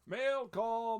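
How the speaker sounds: loud, high call from the window; shouting. Acted. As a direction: call the mail in like Mrs Claus. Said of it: "Missus Claus shouted from the window".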